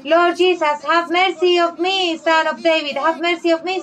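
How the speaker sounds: blind man shouting. Retold or imitated. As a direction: call out to Jesus from the roadside. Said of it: "that was shou-, shouting".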